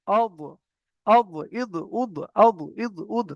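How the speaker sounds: "অব, ইদ, উদ" with a heavy sound between z and d; thick emphatic dad ending "অব, ইদ, উদ"; between zad and dad. Shown as a demonstration. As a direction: press the tongue side to the molars for "অব, ইদ, উদ". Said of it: "জদ আর দদের মাঝখান থেকে".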